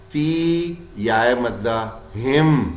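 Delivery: slow careful recitation, the م held still. Shown as a demonstration. Teacher reciting slowly to show the silent م. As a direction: read it out slowly. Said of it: "میم ساکن آتے ہی".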